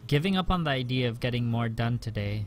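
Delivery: calm first-person narration; story narration. A narrator's reading. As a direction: read it like a novel. Reads the visual novel narration.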